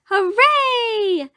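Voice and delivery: high, loud cheer; little girl cheering, pitch leaping up; joyful cry. A narrator's reading. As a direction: cry it out in triumph. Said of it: "cried Little Red Riding Hood".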